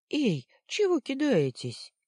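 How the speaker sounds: loud, high indignant yelp; startled shout. Acted. Luna yelping at the boys who threw a stone. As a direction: cry out as a stone whizzes past.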